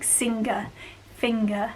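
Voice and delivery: "singer, finger" with a sounded hard g after the ng; Black Country hard-g "singer, finger"; no NG coalescence. Shown as a demonstration. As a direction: let the g be heard in "singer, finger". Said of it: "we pronounce the ng".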